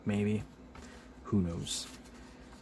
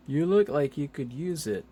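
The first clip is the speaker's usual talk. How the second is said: higher put-on hero voice; Captain America; 5 semitones higher, 4 dB louder than usual. Captain America offering help, higher put-on voice. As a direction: project it as a comic-book hero. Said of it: "He's like".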